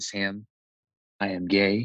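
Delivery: retold plain declaration, each word set down; understated, deliberate statement; bold, matter-of-fact. Brother coming out to his sibling, matter-of-fact. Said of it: "he said it very boldly and very, like, matter-of-factly".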